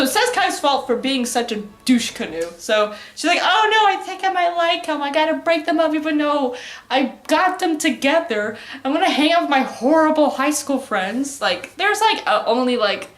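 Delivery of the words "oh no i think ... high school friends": mock girly high voice, gasping at first; Sekai voiced high. Sekai realizing she likes him, mock high voice. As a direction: play the schemer a bit higher and brighter.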